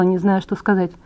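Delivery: usual speaking voice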